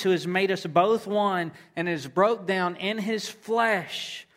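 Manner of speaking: emphatic scripture reading. Acted. Preacher quoting Paul's letter to the congregation, emphatic scripture reading. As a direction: read the verse out with rising conviction.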